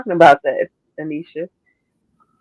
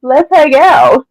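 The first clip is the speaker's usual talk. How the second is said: Covid as a creepy friend; 6 semitones higher, 5 dB louder, slower than usual. Acted. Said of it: "The Rona be like".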